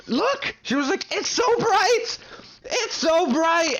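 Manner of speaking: high, slow, strained yell; imitated yelling. Friend on acid yelling about the bright night. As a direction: mimic her yelling at the window. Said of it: "she just started yelling".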